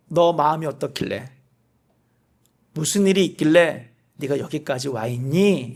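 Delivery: God gently asking the weary prophet; gentle asking. Pretend. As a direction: ask tenderly what happened. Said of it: "라고 하나님께서 물어본다".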